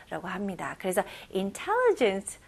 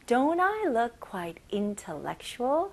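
mock vain question; much slower than usual. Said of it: "안경들 이렇게 쓰면서".

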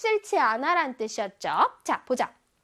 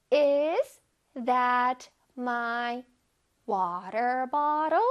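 very slow "Is that my water bottle", lifting the end of "bottle"; word-by-word model, "bottle" rising like a question; rising question intonation; 2 semitones lower, much slower than usual. Shown as a demonstration. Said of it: "끝에 물음표가 있으니까 눅 올려줘야 돼요".

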